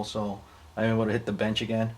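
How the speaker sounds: talking around a sip of coffee; words right after a sip; while sipping a drink. Real, not acted. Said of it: "Excuse me, I'm drinking coffee".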